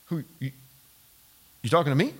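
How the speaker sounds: hushed, hesitant and puzzled question; softly unsure who is being addressed; startled disbelief. Acted. Gideon looking around after the angel's greeting, startled and hushed. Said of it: "I'm looking at him startled".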